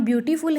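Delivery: ब्यूटीफुल broken up as "byu-tee, ful"; parts said separately. Shown as a demonstration. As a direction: say ब्यूटीफुल in distinct pieces. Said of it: "अलग अलग बोल रहे हैं".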